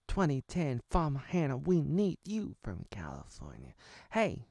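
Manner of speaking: big mock summons, pushed loud; calling out. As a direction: call urgently to someone far away. Calling out to Farmer Hannah.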